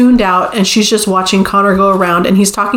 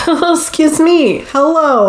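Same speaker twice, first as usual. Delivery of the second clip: high, drawn-out mock surprise; interrupting dad; 7 semitones higher than usual. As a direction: imitate a dad walking in on kissing. Retold dad interrupts a kiss.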